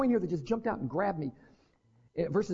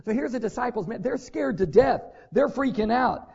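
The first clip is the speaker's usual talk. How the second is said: ordinary talk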